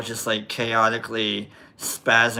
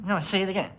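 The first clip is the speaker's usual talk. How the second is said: higher-pitched impression of a girlfriend; imitated girlfriend; 8 semitones higher, 3 dB quieter, faster than usual. Girlfriend asking him to repeat the name, imitated in higher voice. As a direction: retell her eager request in a raised voice. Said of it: "She goes".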